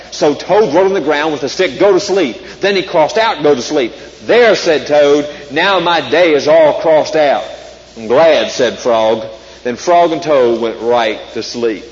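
lively storybook read-aloud; reading to children. Acted. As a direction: read it like a bedtime story for kids. Reads Frog and Toad aloud.

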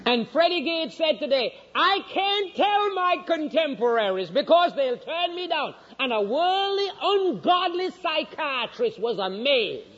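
high, drawn-out pulpit delivery; ringing sermon voice; forceful preaching. Real, not acted. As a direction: preach it high and slow, stretching key words. Preaches at raised pitch.

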